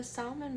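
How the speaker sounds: "salmon" with a sounded L; L pronounced. Shown as a demonstration. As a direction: keep the L audible in "salmon". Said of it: "I pronounce the L in salmon".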